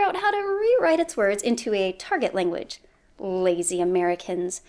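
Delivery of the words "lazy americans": put-on soft scornful Russian accent; bad Russian accent. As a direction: scoff in a mock Russian accent. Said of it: "my bad Russian accent".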